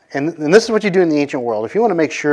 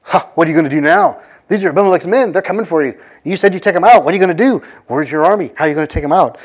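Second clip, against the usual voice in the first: higher, slightly louder retold taunting; mocking taunt; 4 semitones higher, 3 dB louder, faster than usual. Governor taunting the boastful rebel, mild mocking gloat. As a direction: needle him with a gloating sneer, lightly acted. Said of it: "Zebul then starts mocking him".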